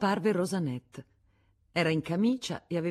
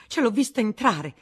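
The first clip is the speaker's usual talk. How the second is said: loud, high insistence; indignant exclamation; 6 semitones higher, 8 dB louder than usual. A narrator's reading. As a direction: prove it with heat. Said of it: "esclamò la Vatnaz". (esclamazione indignata)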